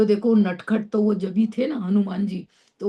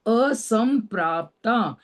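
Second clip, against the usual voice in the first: slow careful word; 2 semitones higher, slower than usual. Shown as a demonstration. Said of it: "असम मतलब एक समान नहीं".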